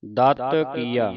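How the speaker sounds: slow ਦਤ ਕੀਆ with an easy touch on ਦਤ; light, unstressed consonant. Shown as a demonstration. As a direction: say ਦਤ lightly, without pressing it. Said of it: "ਪੋਲਾ ਪੜ੍ਹਨਾ".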